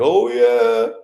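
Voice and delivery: sarcastic impression of a fan cheering; mocking quote. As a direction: ham up the fake admiration. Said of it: "I guarantee you're gonna be like".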